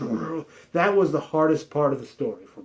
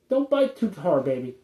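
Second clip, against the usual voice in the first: cooing to kitten. Real, not acted. Talking to a kitten.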